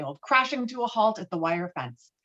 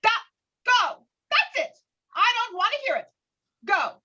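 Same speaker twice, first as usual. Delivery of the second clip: put-on high, strained yelling at the child; angry mother; 14 semitones higher, 4 dB louder than usual. Mother ordering daughter away, high angry voice. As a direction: shout her out of the room.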